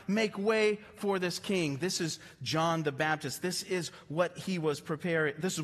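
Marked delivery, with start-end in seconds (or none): 0.1-1.8 slow, steady proclamation; a lightly voiced herald announcing the coming king; herald's call. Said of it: "They would declare his majesty".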